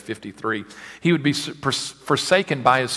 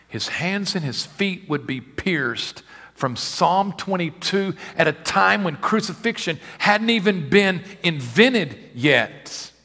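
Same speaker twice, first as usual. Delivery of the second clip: rising, slow, higher preaching cry; preaching at full force; 7 semitones higher, 5 dB louder, slower than usual. Acted. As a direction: build it to a pulpit cry. Preaching the crucifixion prophecy.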